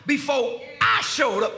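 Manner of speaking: impassioned preaching, pitch lifted; emphatic, commanding pulpit delivery; Jesus, preached forcefully. Acted. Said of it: "This is what Jesus said".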